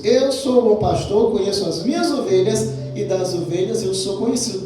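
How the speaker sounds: brisk recap of the verse. Shown as a demonstration. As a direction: rattle it off as a familiar quote.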